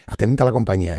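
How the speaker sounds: lieutenant calling the barracks to attention; barked command. Retold or imitated. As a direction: snap it out like a lieutenant entering. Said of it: "y decía esta frase".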